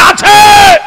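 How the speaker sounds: high, loud cry of yes; boy shouting answer. Acted. Boy boldly answering the robbers with a shout.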